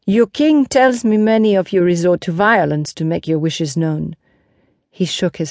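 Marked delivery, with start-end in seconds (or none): 0.1-4.2 lightly voiced knight chiding the crowd; a hint of stern reproof; Lancelot, reproving. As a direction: confront them with their habits.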